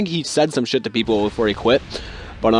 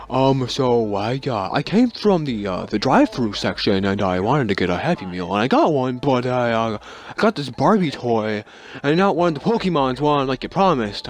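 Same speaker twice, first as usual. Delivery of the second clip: whiny grown man. Retold or imitated. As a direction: drag it out like a sulking kid in an adult body. Grown man whining about Happy Meal toy.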